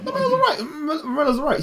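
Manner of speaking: high-pitched laughing protest. Real, not acted. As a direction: laugh it out in disbelief. Laughing disbelief about Lamela.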